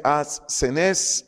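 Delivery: "ascenes" stressed on its last E; acento en la última E. Shown as a demonstration. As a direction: say "ascenes" slowly, leaning on the final E. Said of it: "acento en la segunda E". ("ascenes" con acento en la segunda E)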